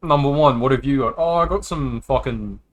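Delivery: lightly put-on Australian accent for the wise men; a hint of a rough Aussie bloke telling the nativity; full Aussie. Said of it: "Going full fucking Aussie".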